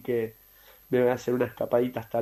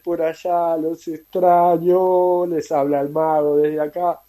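crying; 3 semitones higher, slower than usual. Real, not acted. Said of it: "perdón que estoy llorando".

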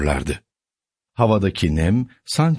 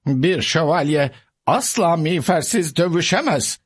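sadly; 7 semitones higher than usual. A narrator's reading. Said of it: "dedi Don Kişot üzgün üzgün".

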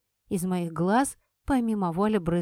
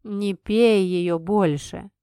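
slow, firm request; 5 dB louder, much slower than usual. Acted. Red asks after deep sigh.

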